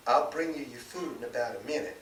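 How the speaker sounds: hurried mother. Acted. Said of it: "she added hurriedly".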